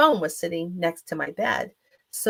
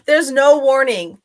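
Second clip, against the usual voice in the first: loud, raised, slow insistence; emphatic repeat; 7 semitones higher, 10 dB louder than usual. Real, not acted. Speaker repeats the point to listeners after a laugh, emphatic exclamation. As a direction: hammer the point home, drawn out.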